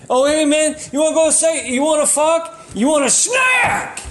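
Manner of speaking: high, bro-ish voice ending in a shout; mock dude propositioning. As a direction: ham up a guy hitting on someone. Acted pickup line quote.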